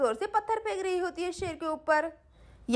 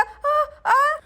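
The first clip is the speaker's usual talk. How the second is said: pain cry; 7 semitones higher, 4 dB louder than usual. Acted. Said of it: "मुझे बहुत ही दर्द हो रहा".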